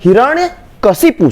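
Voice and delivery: slow हिरण्यकशिपु with ka-shi-pu; correct pronunciation. Shown as a demonstration. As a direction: separate हिरण्य and कशिपु, clear 'shi'. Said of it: "सही क्या है?". (हिरण्यकशिपु, साफ़ 'शि' के साथ)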